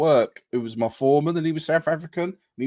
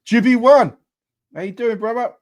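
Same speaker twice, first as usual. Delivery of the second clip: much higher, loud hype hello; excited greeting; 10 semitones higher, 8 dB louder than usual. Real, not acted. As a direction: call out a big welcome.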